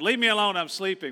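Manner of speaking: man suddenly hollering. Retelling how a man on the ground yelled when rolled over: imitating someone yelling. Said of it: "he yells out".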